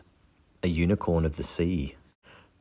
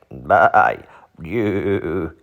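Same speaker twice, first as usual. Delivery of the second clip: goat voice; 7 dB louder than usual. Retold or imitated. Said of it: "like a billy goat gruff".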